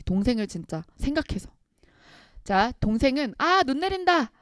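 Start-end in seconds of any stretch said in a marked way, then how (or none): 3.4-4.3 high, airy acted exclamation; feigning not hearing. Little brother pretending not to hear his brother, feigned obliviousness. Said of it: "못 들은 체 하고".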